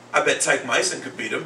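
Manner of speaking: "Tyke Myson" with first sounds of Mike Tyson swapped; kid's mispronunciation. Retold or imitated. Second grader bets against Larry Holmes, saying "Tyke Myson" swapped. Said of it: "one of my second grade kids".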